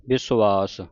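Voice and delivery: ਵਿਸ਼ਵਾਸ said "bis-vaas", with b and s; "bis-vaas" for ਵਿਸ਼ਵਾਸ, long final vowel; careful pronunciation. Shown as a demonstration. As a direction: model ਵਿਸ਼ਵਾਸ slowly as "bisu-vaas". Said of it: "ਇਸ ਦਾ ਜਿਹੜਾ ਉਚਾਰਨ ਹੈ".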